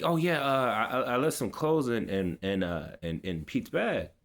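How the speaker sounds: mock caught-out stammer; imitated stammering excuse. Brother explains himself to the coach, mock stammering excuse. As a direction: stumble through an excuse, trailing down.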